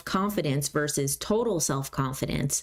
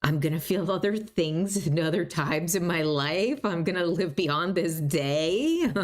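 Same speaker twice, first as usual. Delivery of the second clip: calm, reassuring. Shown as a demonstration. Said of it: "It just needs to be realistic".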